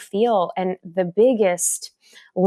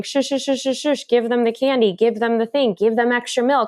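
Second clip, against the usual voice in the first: higher-pitched mock hushing and fussing; imitated fussing elders; 5 semitones higher than usual. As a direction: lightly imitate elders hurrying to pacify a baby. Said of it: "you hear your elders saying".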